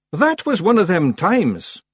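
high, slow, loud reproof; icily patient Rob Anybody. A narrator's reading. Rob reproving Daft Willie, strained patience. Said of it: "with icy patience".

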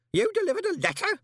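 high, loud, horrified cry. A narrator's reading. Old Groat horrified that Moist delivered a letter. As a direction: gasp it out in horror.

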